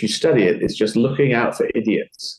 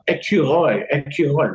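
supplying the word; 5 semitones higher than usual. Retold or imitated. Acts out being told the word.

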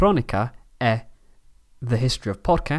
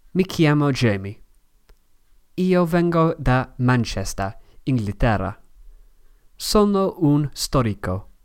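Italian with an English accent; English learner's accent in Italian. Real, not acted. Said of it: "o mia pronuncia è mala".

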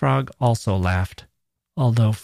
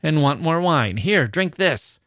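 roaring tyrant king; 5 semitones higher than usual. Acted. King grows enraged.

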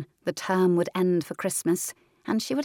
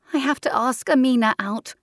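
put-on girl's voice; 6 semitones higher, 5 dB louder than usual. Louise answers hesitantly.

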